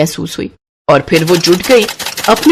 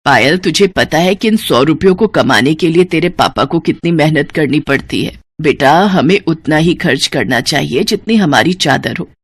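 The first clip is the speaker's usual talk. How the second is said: patient mother; 3 semitones lower than usual. Acted. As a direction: reason with her gently. Mother advises calmly.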